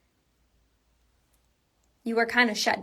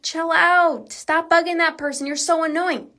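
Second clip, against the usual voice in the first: higher-pitched imitation of an annoyed critic; mildly exasperated telling-off, pitched up; mock scolding; 6 semitones higher than usual. Critic telling someone to stop bugging that person, mock scolding.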